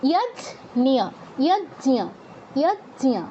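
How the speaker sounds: ইয়াজ্ঞিয়া as yaj-nya, with j plus ny, no g; careful repeated ইয়াজ্ঞিয়া, j running into ny; corrective pronunciation. Shown as a demonstration. Teacher correcting a learner's g, demonstrating ইয়াজ্ঞিয়া with j and ny. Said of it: "জ আর ইয়".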